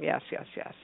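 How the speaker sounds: hushed, whispered mantra; whispering. Retold or imitated. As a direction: whisper it as if repeating it inwardly. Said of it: "she just kept whispering".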